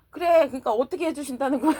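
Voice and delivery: asked through a laugh; amused, laughing retort; laughing question. Retold or imitated. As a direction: let the laugh spill into the question. Sister's reply, laughing.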